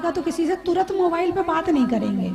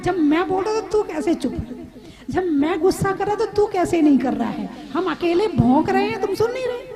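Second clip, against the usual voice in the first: mock angry scolding; 3 semitones higher than usual. Angry person scolds the one who stays silent, mock. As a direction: rant at someone who won't fight back.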